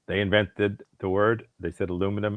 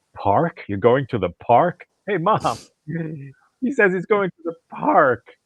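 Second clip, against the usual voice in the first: put-on Brooklyn accent; 11 semitones higher, 6 dB louder than usual. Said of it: "the Brooklyn comes back".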